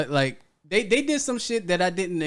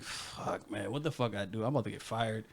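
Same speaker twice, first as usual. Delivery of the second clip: whispered curse into a very soft, low mutter; retold dread; 7 semitones lower, 16 dB quieter than usual. Employee sure he is about to get fired, muttering in dread. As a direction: sink into a hushed, doomed aside. Retelling fear of being fired.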